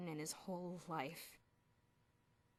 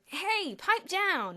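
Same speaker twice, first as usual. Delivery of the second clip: annoyed cries; 11 semitones higher, 13 dB louder, much slower than usual. A narrator's reading. Boys woken in the corridor, yelling annoyed. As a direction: shout them down through the door. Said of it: "cries of".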